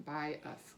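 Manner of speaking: "by us" slowly in two syllables, ending in uh; schwa ending. Shown as a demonstration. Teacher confirming the schwa, slow "by us" with an uh. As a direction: stretch "by us" apart, with uh in the second part. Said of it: "Do you remember the schwa?".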